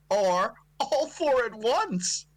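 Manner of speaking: slow, breathy whisper. Acted. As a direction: slowly whisper the ending. Whispering the email line.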